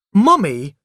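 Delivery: loud high shout; child shouting. A narrator's reading. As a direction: yell for mother's attention. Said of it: "I shouted".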